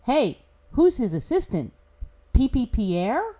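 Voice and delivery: hint of a child's voice, drawing out the punchline; inner nine-year-old. Commentator voicing the child inside his head, lightly childish. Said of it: "the nine-year-old child inside my head says".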